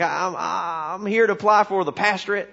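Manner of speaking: lightly voiced country bumpkin preacher; backwoods preacher. Country preacher applying to a city church committee, backwoods voice. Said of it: "kind of a backwoods kinda guy".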